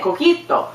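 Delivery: "Coquito" pitched high, English-sounding; insistent American attempt. Speaker insisting it is the same, "Coquito" said high. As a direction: throw back a high "Coquito" in protest. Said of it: "that's what I'm saying".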